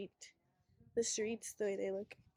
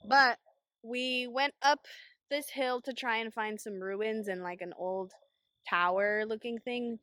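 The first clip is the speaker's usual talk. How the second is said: shouting over wind; 4 dB louder than usual. Real, not acted. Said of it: "Hopefully you can hear me through the wind".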